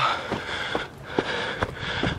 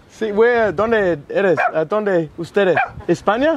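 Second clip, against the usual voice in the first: Australian accent Spanish; slower than usual. Real, not acted. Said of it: "habla otro idioma".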